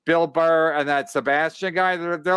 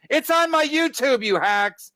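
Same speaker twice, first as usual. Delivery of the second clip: mock-mad retort; 9 semitones higher than usual. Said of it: "he's acting like he's mad".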